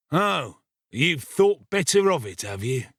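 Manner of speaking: a touch of ruffian's growl, dropping at the tag question. A narrator's reading. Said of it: "growled Sikes".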